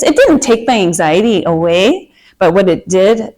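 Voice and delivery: slipping into a Minnesota accent. Real, not acted. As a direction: Minnesota vowels creeping in. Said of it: "sorry, that was my Minnesota accent".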